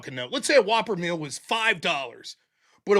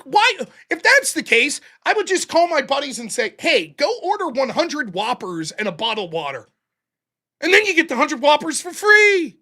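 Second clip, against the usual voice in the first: loud, higher, exasperated rant; heated argument; 5 semitones higher, 3 dB louder than usual. Retold or imitated. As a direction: argue him down. Arguing with uncle at window.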